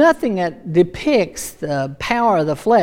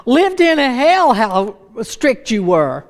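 higher, louder retold exclamation; incredulous complaint; 5 semitones higher, 4 dB louder than usual. Amy complaining to the speaker about past strictness, incredulous. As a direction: imitate an astonished, exasperated grievance.

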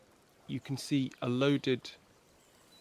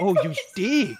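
higher, louder, laughing through it; laughing repeat; 6 semitones higher, 9 dB louder than usual. Retold or imitated. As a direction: repeat it while cracking up. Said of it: "You what?".

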